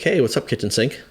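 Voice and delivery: playful heckle; teasing call-out. Retold or imitated. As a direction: toss out a mocking nickname. Acted heckle from a trainer.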